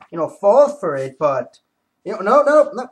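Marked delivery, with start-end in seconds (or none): 2.0-2.9 high, loud excited protest; thrilled to show the villain survives, excited no. Real, not acted. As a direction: cry out no, no in disbelief. Excited denial while showing comic.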